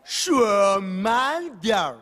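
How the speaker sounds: put-on very slow foreign-accented Mandarin; a foreigner pleading slowly; foreigner speaking mandarin. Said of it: "他怎么说".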